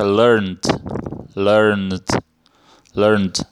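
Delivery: learned ending in a voiced D, "lurnd". Shown as a demonstration. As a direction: repeat learned as one syllable with a D after the N. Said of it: "pronuncia com um D no final". (learned com o ED soando como D)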